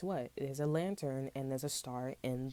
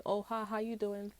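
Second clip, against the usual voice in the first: mock sweet greeting; 6 semitones higher than usual. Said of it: "Shorty called me".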